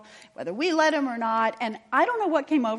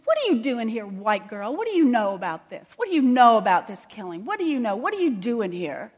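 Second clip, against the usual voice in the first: louder, demanding questions fired at her; retold fury; 6 dB louder than usual. Grieving mother confronting the chaplain, angrily and loudly. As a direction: voice the grieving mother's angry challenge, loud. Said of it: "she was furious".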